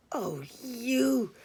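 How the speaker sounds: breathy little whisper, teasing and coy; giggly whisper. Acted. Phone mate teasing her partner in bed, whispered with a giggle. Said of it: "she giggled".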